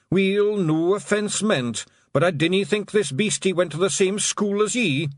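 dry little Scots aside; Scots pixie voice. Acted.

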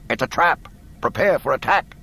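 high, loud desperate warning. Acted. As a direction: cry out the warning. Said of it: "spoke desperately".

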